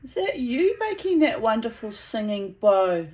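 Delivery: lifted pet-talk voice; talking to birds. Real, not acted. Talking to her singing birds.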